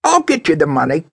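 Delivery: very high, loud insistence; emphatic. Acted. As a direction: demand it, forcefully. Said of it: "she stated emphatically".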